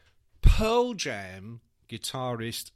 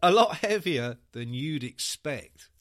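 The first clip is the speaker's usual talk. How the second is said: slow emphatic quote; 2 semitones lower, 5 dB louder, slower than usual. Retold or imitated.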